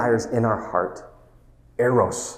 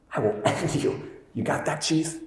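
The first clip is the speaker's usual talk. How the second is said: breathy whispered menace with a short laugh; hushed mocking threat to Will; 5 semitones higher, 6 dB quieter than usual. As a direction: whisper the threat again, almost amused. Repeats threat, retold scene.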